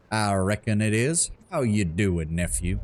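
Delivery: lightly voiced southern gnome, slow and easy; a hint of a Southern accent, unhurried; light southern drawl. Greeting his nephew, a mild Southern accent. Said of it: "A gnome with a southern accent".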